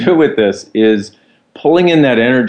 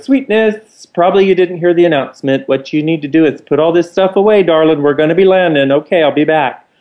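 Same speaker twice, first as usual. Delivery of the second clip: higher, sing-song camp steward over the intercom; higher theatrical camp cabin-crew voice; camp flight attendant; 6 semitones higher than usual. Retold or imitated. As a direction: ham up a sassy flight attendant, pitched up. Flight attendant scolds passenger.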